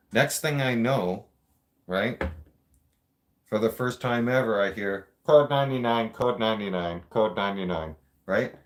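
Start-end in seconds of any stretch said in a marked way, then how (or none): 5.3-8.0 imitating a PA call over the speakers; loudspeaker announcement. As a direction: call it out like the prison intercom. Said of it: "I'm doing it like that because that's how it sounded over the speaker system".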